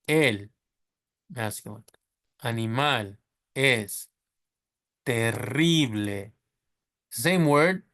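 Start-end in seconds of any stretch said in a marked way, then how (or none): 2.4-6.3 terrible with a rolled double R, slow Spanish vowels; slow Spanish model, trilled R; Spanish reading. Shown as a demonstration. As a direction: read terrible the Spanish way, slowly. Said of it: "we just pronounce it double".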